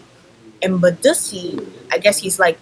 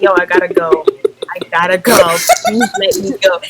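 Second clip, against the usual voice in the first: desperate pleading; 5 dB louder, faster than usual. Retold or imitated. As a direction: beg to be let go, voice climbing up. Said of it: "I'm like".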